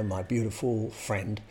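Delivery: ordinary delivery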